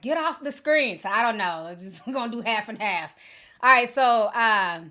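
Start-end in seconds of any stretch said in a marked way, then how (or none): 0.0-1.0 mock viewer complaint. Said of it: "other people like".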